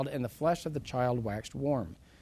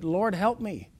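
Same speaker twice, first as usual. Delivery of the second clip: mildly acted plea, slightly raised; begging; 4 semitones higher, 3 dB louder than usual. Woman at his feet pleads with Jesus, begging. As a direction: beg with a touch of urgency. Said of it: "She's begging".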